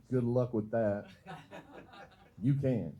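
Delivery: laughing scornfully through the words; mama's sneering laughter; a mother laughing off her son's plan; mocking laugh. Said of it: "then she laughed like".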